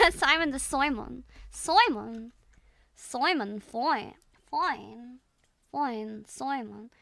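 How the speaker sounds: playful oi-for-i Scottish attempt; muddled Scottish-Irish accent. Streamer toying with a practice word, muddled Scottish-Irish. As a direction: fumble between Scottish and Irish vowels. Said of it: "confuse both Scottish and Irish".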